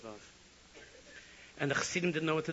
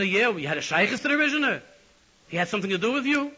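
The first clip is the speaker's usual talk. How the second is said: mock heavenly questioner; 8 semitones higher, 12 dB louder than usual. Heavenly court questions the chassid.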